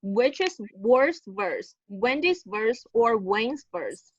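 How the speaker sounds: slow, careful model reading; slow and clear. Shown as a demonstration. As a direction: spell out each word slowly. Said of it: "you can slow it down".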